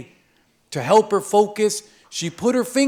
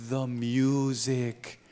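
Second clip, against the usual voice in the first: soft dreamy; 6 semitones lower, 8 dB quieter, slower than usual. Acted. Old vendor remembering softly.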